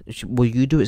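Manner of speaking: normal talking voice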